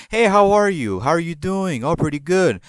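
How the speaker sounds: mock an overly polite greeter; a light parody of a cheerful hello; chirpy greeting. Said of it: "I'm never like".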